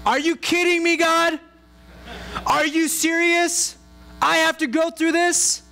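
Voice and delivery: high, strained cry of disbelief at God; a believer hit by a trial crying out high and stunned; indignant outcry. Retold or imitated.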